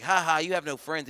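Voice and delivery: schoolyard jeer, spelt-out "ha ha"; mocking taunt. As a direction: tease him like a kid. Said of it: "and I was like".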